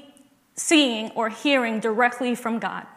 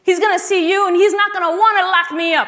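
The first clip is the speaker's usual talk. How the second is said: lightly voiced mom, high and coaxing; a hint of a sweet-talking mother; 8 semitones higher, 4 dB louder than usual. Mom coaxes her six-year-old before court, lightly voiced.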